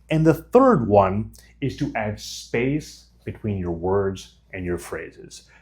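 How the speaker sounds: calm, with clear pauses between phrases; paused, measured delivery. Shown as a demonstration. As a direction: give each phrase its own space. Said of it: "But if I talk like this".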